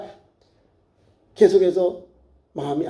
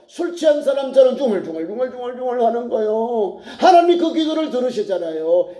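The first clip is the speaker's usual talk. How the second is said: raised, insistent preacher's cadence; fervent preaching; 5 semitones higher than usual. Real, not acted. Preacher urging tearful prayer for families, fervent exhortation. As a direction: drive each phrase on in urgent exhortation.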